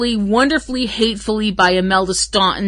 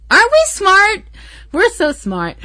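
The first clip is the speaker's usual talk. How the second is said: mock smug; 12 semitones higher than usual. Smug joke about insult trick.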